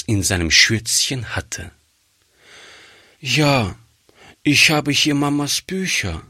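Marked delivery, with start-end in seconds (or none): 3.2-6.2 sad. Acted. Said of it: "sagte die Kleine traurig".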